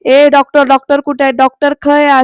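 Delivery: loud calls for the doctor, half acted; a mock yell across the ward; bellowing for the doctor in a retold scene; retold shouting. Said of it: "आरडाओरडा करतो".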